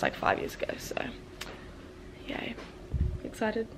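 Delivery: hushed early-morning voice; quiet. Real, not acted. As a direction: keep it soft, others asleep. Early morning, others sleeping.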